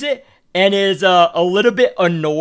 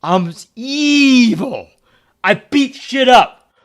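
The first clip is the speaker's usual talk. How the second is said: mock villain; 5 semitones higher, 4 dB louder, much slower than usual.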